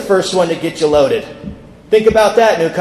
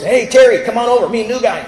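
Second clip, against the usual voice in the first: mildly raised, higher calling voice; 3 semitones higher than usual. Retold or imitated. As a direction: hail a buddy to come join you. Jack calls Terry over.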